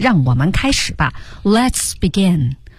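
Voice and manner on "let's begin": commanding "let's begin", pitch pushed down, falling. Like a master giving orders: pressed-down fall on let's begin. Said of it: "有点下压的".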